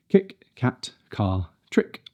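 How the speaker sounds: "Kick, cat, car, trick" with light clean k; crisp k in each word. Shown as a demonstration. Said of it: "Crisp and not too heavy".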